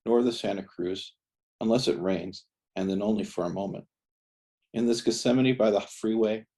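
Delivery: measured, deliberate poetry-reading cadence; poem reading. Acted. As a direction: read it as verse, pausing after each line. Reads own poem aloud.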